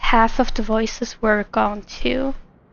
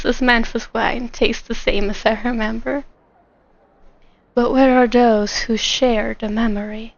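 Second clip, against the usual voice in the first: Song Lee. Acted. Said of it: "You want me to do Song Lee?".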